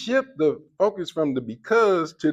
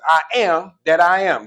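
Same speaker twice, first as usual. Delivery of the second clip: louder, solemn declaration of the name; voice of God; 4 semitones higher, 6 dB louder than usual. Retold or imitated. God answering Moses, a loud solemn proclamation. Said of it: "I ain't giving you no names".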